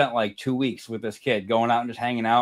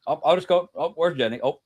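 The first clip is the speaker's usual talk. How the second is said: mock Ohio accent; 5 semitones higher, 4 dB louder than usual. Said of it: "if it was an Ohio accent".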